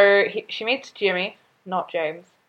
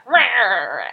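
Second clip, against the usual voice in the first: ranting father noise. Retold or imitated. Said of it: "in true fatherly fashion".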